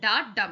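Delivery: quick da, then a longer dum; stress on dum. Shown as a demonstration. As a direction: say da short and give dum time. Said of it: "da आपने जल्दी से बोल दिया". (da जल्दी से, dum पर ज़ोर)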